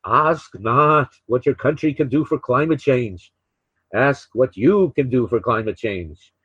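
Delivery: lightly put-on New England accent; a half-serious presidential New England accent; JFK. Host imagining the president speaking today, lightly imitated New England accent. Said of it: "I try to do, uh, J F K imitations".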